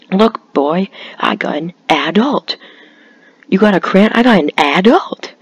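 "adult" exaggerated as AD-ult; mocked pronunciation. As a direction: ridicule "adult" by punching its first syllable. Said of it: "start pronouncing things differently like that".

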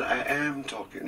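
high, slow put-on Scottish protest; imitated Scottish accent. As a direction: mimic his wife insisting in Scottish. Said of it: "Jean would suddenly be talking like this".

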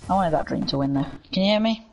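robotic voice changer. Real, not acted. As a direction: talk through a robot voice filter. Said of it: "your voice is a robot".

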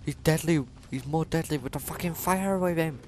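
high, loud frantic shouting; panicked gamer screaming; panicked yell. Real, not acted. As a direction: shout in panic while fleeing. Fleeing chased by enemy.

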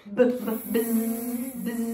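buzzing bee sound. Shown as a demonstration. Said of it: "Can you try to do that with us?".

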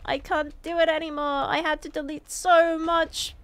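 lightly hammed-up pleading to the PC man; a touch of a whiny plea; mock desperate begging. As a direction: beg pitifully, overdone.

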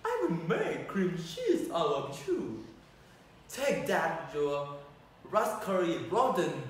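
loud taunting fighter; battle taunt. Acted. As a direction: jab the words with each strike.

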